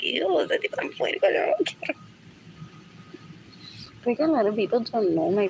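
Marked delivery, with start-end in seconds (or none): 0.0-1.9 put-on high, squeaky girlish disgust; a light put-on girly voice, rising high at the end. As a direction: sneer it like a grossed-out girl. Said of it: "and she's like".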